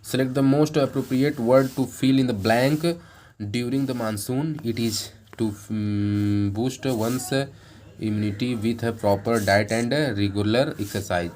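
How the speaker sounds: slow, deliberate reading of an exam question. Acted. Teacher reads the exam sentence to students, slow and deliberate. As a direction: read each English word out carefully for the class.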